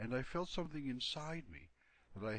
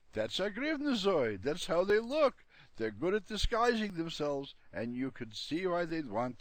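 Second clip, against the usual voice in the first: lightly voiced Borgel; 8 semitones higher, 8 dB louder than usual. Borgel explains the monster.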